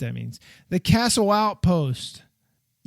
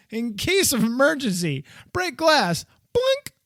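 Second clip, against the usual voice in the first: mock alarm sign; 8 semitones higher than usual.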